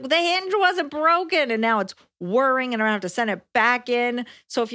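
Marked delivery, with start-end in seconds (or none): 0.0-1.5 high, slow exasperated retort; mock exasperation. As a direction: stretch it out in disbelief. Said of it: "And I was like".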